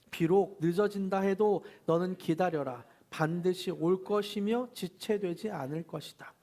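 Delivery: unhurried congregational reading; scripture reading aloud. Acted. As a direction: read it out together, measured and clear. Leads group Bible reading.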